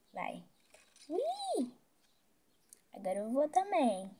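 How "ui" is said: zipline squeal. Real, not acted. Riding the zipline.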